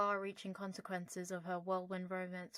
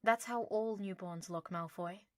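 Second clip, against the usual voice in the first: sagely. Acted. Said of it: "Harry said sagely".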